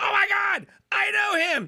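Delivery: shrieking, very high, loud screaming outburst. Retelling another speaker's reaction to a threat: imitating someone screaming. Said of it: "and then you screaming".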